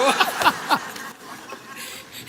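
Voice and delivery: breathy burst of real laughter. Real, not acted. Laughing while telling her audience the story. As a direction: laugh out loud at the memory.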